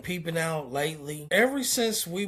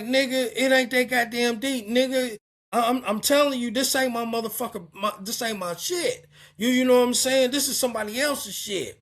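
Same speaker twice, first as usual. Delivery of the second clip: higher, louder heated protest; retold loud argument; 4 semitones higher, faster than usual. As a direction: argue it back hot, not backing down. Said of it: "we're loud".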